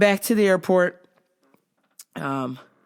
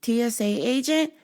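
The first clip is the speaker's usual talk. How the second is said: lightly voiced female agent, higher pitch; lady agent; 4 semitones higher than usual. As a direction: imitate her asking, with pauses. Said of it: "she said".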